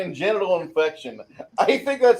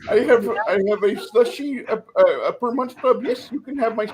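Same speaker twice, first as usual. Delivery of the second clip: put-on Indian accent. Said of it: "we're a bunch of racists".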